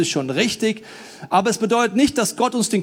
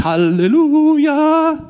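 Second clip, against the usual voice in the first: mock joyful shout; 6 semitones higher, 6 dB louder, much slower than usual. Mock joyful wedding cry.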